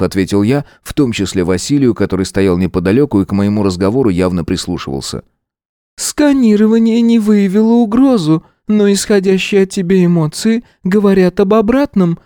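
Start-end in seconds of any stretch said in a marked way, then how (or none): 6.0-12.2 high flat stubborn golem voice; insistent creature, level pitch; slow stone monotone. A narrator's reading. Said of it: "упрямо продолжил голем". (упрямый монотонный голем)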